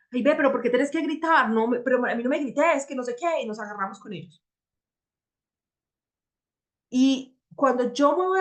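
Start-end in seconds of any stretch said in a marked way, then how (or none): 0.1-3.4 mock angry complaint. Woman snapping back at her shouting boyfriend, mock exasperated. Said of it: "Y nosotras llegamos y le decimos como".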